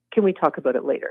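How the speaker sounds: tiny, small, quiet, soft little voice. Retelling what she said once her body went to mush: imitating a little quiet voice. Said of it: "just this little quiet voice said".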